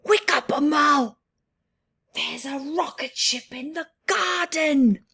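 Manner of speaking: high, loud wake-up call; excited shout. Acted. Boy shouting to wake his sister, high and loud. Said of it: "lets out a shout".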